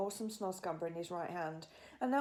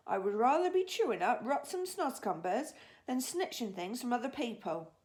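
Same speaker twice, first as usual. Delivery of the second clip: BFG; 4 semitones higher, 4 dB louder than usual. Acted. BFG proudly refuses.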